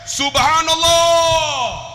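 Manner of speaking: high, loud, slow drawn-out call; leading zikir. Retold or imitated. Umrah guide leading his pilgrims in zikir, loud call. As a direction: shout SUBHANALLAH long to lead the group. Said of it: "Saya pegang jemaah. Zikir".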